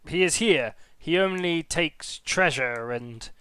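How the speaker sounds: kobold guard voice. Acted.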